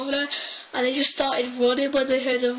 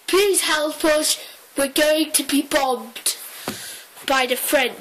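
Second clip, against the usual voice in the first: mock crying plea. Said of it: "phoned Dad crying".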